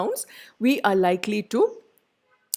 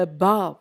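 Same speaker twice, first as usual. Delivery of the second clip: "Above" as a-BOVE; light A, weight on "bove" in "Above"; stress on second syllable. Shown as a demonstration. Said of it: "it is the second syllable".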